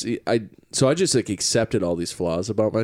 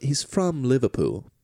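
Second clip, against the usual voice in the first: mock Liverpool accent; 3 semitones higher than usual. Playing with British accent.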